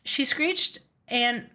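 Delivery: yawning through the words. Real, not acted. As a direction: say it mid-yawn. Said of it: "Uh, I yawned".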